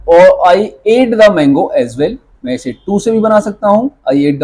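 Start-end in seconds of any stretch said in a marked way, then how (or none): 0.1-2.2 धीमे, शब्द-शब्द; slow model sentence. Shown as a demonstration. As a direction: dictate slowly for students. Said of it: "जैसे as well से बनाना है". (धीमा उदाहरण)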